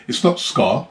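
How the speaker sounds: ska said the Jamaican way, in a Jamaican accent. Shown as a demonstration. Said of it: "I'm gonna say it in a Jamaican accent".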